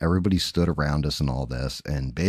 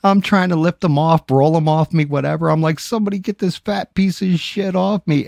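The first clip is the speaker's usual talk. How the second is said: much higher, strained and laughing; 11 semitones higher, 3 dB louder than usual. Retold or imitated. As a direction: squeeze it out while laughing under the weight. Stuck under an unconscious heavy man.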